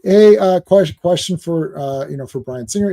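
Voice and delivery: halting, hesitant nice fan, lightly voiced; timid polite fan. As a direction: ask it shyly, stumbling a little. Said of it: "I'll say it the way he really said it".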